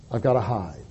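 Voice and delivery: low, very soft mutter; muttering to himself. A narrator's reading. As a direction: mutter it under your breath, sinking away. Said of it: "to mutter to himself".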